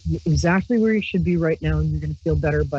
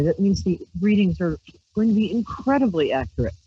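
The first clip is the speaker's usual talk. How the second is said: usual speaking voice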